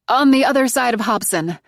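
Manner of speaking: breathed out, shaky and scared. Acted. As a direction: answer shakily, out of breath. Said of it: "I breathe".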